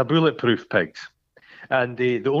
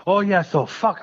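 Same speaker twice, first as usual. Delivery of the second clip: excited; 7 semitones higher than usual. Retold or imitated. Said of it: "I actually sat up in my seat".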